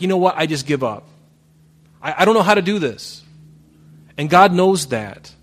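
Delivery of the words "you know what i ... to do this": frustrated believer. Retold or imitated. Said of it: "You're like".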